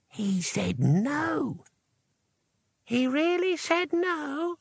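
high, slow, drawn-out ghostly tones; disembodied voices. A narrator's reading. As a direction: stretch it out, climbing very high in disbelief. Disembodied voices confer in disbelief.

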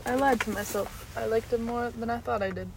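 talking with a mouthful; chewing while talking; mouth full. Real, not acted. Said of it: "I'm actually gonna have another bite".

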